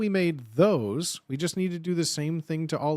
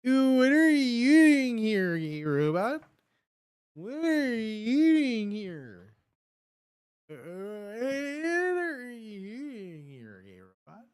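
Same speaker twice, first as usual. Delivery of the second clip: teasing singsong; 5 semitones higher, slower than usual. Acted. Teasing the gay robot.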